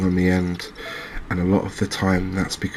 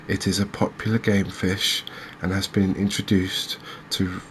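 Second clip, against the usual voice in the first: reading aloud. Acted. Angler reading a fish fact sheet to viewers, reading aloud. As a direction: read it out evenly, phrase by phrase. Reads out an encyclopedia entry.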